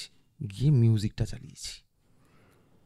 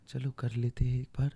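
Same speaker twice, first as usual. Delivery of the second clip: imitating Gandhi; 6 dB quieter than usual. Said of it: "উনি গান্ধীর গলায় কথা বলছিলেন".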